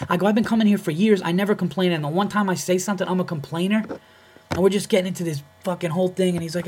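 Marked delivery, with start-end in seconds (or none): 0.3-3.8 higher-pitched retold self-defence; indignant protest. Comedian answering the club employee's accusation, indignant protest. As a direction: argue back, offended at the accusation.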